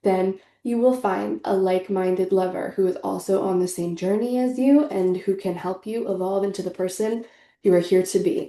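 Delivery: ordinary delivery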